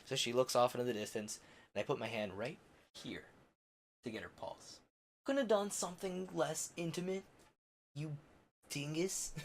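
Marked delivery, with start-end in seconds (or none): 5.2-9.3 self-scolding. Real, not acted. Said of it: "scolding himself".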